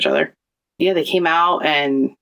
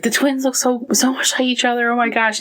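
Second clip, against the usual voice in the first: excited yelling; 7 semitones higher than usual. Retold or imitated. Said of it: "he's, like, yelling".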